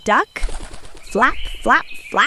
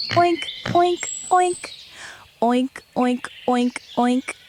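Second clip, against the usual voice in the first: pig oink. Shown as a demonstration. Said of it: "What does a pig say?".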